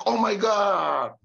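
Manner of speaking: high, loud, slow cry; drawn-out startled shout; shocked shout. Retold or imitated. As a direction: yell it out in sudden shock. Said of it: "langsung dia teriak".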